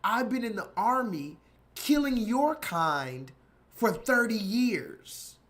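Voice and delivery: hammed-up veteran threatening the clerk; retold threat. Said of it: "He said".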